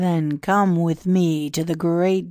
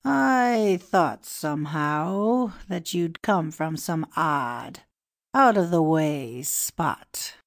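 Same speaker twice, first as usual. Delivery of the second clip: courteous; 13 semitones higher, slower than usual. A narrator's reading. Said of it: "said the priest with courtesy".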